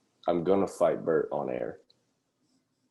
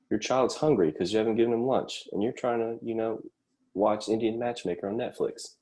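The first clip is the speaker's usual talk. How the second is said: high-pitched mock advertising question; 6 semitones higher than usual. Comic posing a parenting problem to parents, mock ad pitch. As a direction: pitch it high, like a commercial's setup.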